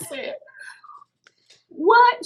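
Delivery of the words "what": sharp breathy gasp of disbelief; a startled, hushed what; shocked what. Retold or imitated. Retelling her stunned reply to the friend, hushed and startled.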